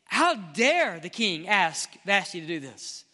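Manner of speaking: slow, indignant outburst; slow, emphatic indignation; rage. Acted. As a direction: demand it in outrage, punching the first words. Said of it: "you read this with rage and say".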